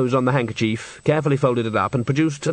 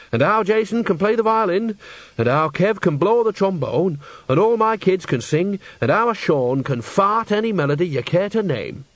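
higher-pitched boast in a character voice; proud Nanny; 6 semitones higher than usual. A narrator's reading. Nanny boasts to Enrico about her children, proud character voice. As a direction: list the talents as a proud matriarch.

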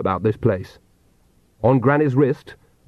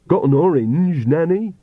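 Igor voice; 6 semitones higher than usual. Acted.

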